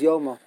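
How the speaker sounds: Yoma with an "o" vowel; rounded first vowel in Yoma; correct pronunciation. Shown as a demonstration. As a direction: say Yoma with "yo", not "yoo". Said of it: "The correct pronunciation is Yoma".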